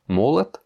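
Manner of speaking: "Молот" said MO-lat; unstressed O as A. Shown as a demonstration. Teacher reads the next example, reduced second vowel. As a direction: say "Молот" with stressed O, then A. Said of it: "un O non accentué qui se prononce comme un A".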